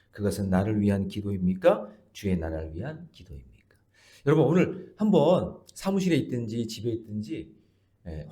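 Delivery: normal talking voice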